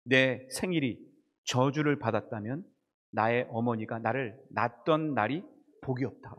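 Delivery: low, heavy voice of someone who has given up; despairing lament. Acted. Preacher quotes Jeremiah cursing his birthday, despairing. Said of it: "절망한 뒤에 뭐라고 얘기하느냐".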